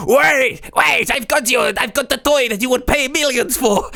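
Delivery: high, pleading call; calling after someone. Acted. Lycan running after scammers with a toy, high pleading call. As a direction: call out desperately to someone getting away.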